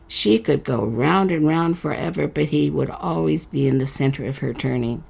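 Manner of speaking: unhurried storyteller reading a fairy tale; story narration. A narrator's reading. Host reading the letter-writer's story to listeners, narrating. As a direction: read it like a bedtime tale.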